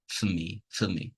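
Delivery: "for" with the O dropped, leading into "me"; weak "for". Shown as a demonstration. Teacher demonstrating the dropped O, weak "for". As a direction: say fuh ME, softly. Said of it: "I'm dropping the, the O for".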